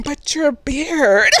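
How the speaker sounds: slow, drawn-out deadpan line; lightly voiced dumbfounded teacher; mock quote. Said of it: "I'm always gonna remember that part".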